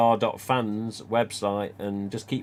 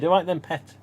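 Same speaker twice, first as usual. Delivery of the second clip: put-on Geordie accent; 6 semitones higher, 4 dB louder than usual. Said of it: "Or to a kid".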